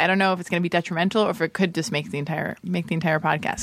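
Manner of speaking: wired on caffeine, rambling; too much caffeine. Real, not acted. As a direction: talk like you've had too much coffee. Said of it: "I'm so caffeinated right now".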